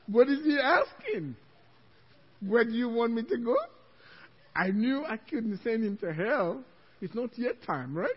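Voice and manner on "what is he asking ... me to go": louder, bewildered echo of a question; flustered, frightened retelling; acted panic. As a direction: repeat it in mock alarm. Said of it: "I was so scared".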